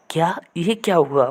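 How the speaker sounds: mildly acted astonishment; retold puzzled surprise; bewildered. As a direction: ask it as the startled hero. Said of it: "वो हैरान हो जाता है".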